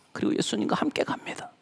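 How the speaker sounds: unvoiced hushed delivery; softly whispered, reverent. Shown as a demonstration. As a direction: drop to a whisper for weight. Preacher drops to whisper.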